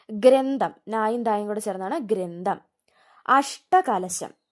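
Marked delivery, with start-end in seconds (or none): 3.3-4.4 അഷ്ടകലശം said very slowly, falling; drawn-out word. Shown as a demonstration. Teacher announcing the word for students to note, very slowly. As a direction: stretch out അഷ്ടകലശം syllable by syllable. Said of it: "ആ ടാ ഏതാന്ന് നോക്കണം".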